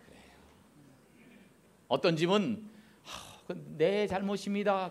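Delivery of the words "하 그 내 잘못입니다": humble admission. Retold or imitated. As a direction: sigh and admit 내 잘못입니다 gently. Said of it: "어떤 집은 ... 그러는 집이 있어요".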